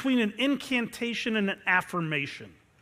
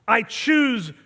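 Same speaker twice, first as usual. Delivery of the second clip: loud, slow and firm, each word set down; intense declaration; 3 semitones higher, 6 dB louder, slower than usual. Shown as a demonstration. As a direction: declare it like a vow.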